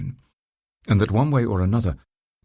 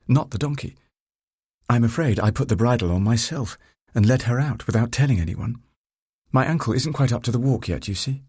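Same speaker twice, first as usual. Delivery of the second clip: higher-pitched character voice, mildly apologetic; lightly voiced woman rider; 4 semitones higher than usual. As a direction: lightly play her higher, owning up. Narrator voices Sophie confessing.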